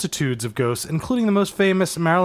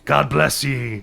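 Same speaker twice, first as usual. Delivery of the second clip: sea captain voice; slower than usual. Pretend. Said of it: "a different sea captain voice".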